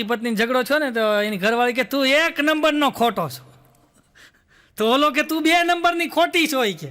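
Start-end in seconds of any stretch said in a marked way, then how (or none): 1.8-3.5 mock quarrel. Acted husband-wife quarrel. 5.2-6.6 mock quarrel retort. Acted husband-wife quarrel.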